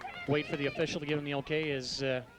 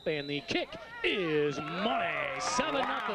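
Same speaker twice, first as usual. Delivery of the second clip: excited; slower than usual. Real, not acted. Extra point made.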